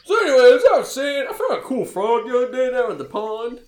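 put-on high, loud, excitable kid voice; hammed-up chatty child character; Elmo. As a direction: babble on like an eager small child. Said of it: "Elmo is in the front".

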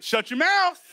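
warning Holy Spirit. Retold or imitated. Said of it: "The Holy Spirit's gonna be there saying".

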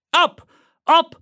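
high, urgent rousing shout. A narrator's reading. Paul Revere rousing sleeping farmers from horseback, shouting. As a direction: cry out loudly to wake everyone. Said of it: "shouted Paul Revere".

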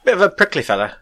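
playful British impression; British accent. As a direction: join in with a mock-British line. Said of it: "to do a British accent".

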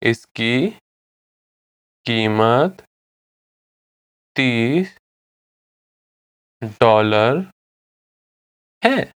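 each word alone, long pause after it; slow, drawn-out language drill; slow repetition. Shown as a demonstration. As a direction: say it word by word for repeating. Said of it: "I'll say it again slowly".

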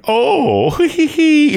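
put-on high giggly girlish voice; girly giggle. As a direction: titter like a coy girl. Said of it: "do some sort of little girly thing".

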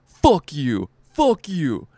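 angry comic cursing out the host, mock yell. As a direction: hurl it at the host on stage. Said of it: "Loses his shit on stage".

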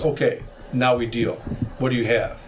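imitating a composed dealmaker; measured and even, getting down to business; calm, composed. Robed man sits down to deal after his rant, calm imitation. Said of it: "in a very calm, composed voice".

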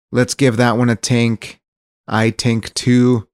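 "tink" with a hard t for th. Pretend. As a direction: say "tink", not think.

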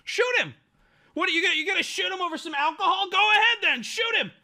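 high, loud taunting shout with a laugh breaking in; hammed-up goading, laughing as you go; retelling the coworker's taunt with a loud laugh; mock daring yell. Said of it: "the funniest part of the story".

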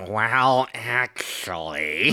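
"Well" punched, "actually" drawn out slowly with a rise; know-it-all correction, slow and drawn out; smug well actually. Retold or imitated. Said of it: "Orchid just sitting there going".

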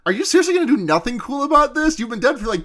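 high, fast, pushy excitement; hammed-up hype-man Gojo; mock-excited Gojo. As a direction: egg him on, rushing the words. Gojo voiced pushing Yuji.

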